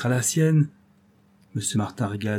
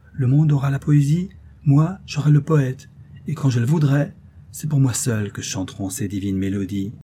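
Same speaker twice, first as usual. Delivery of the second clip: exalted. Acted. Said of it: "Elle parlait avec une exaltation extraordinaire".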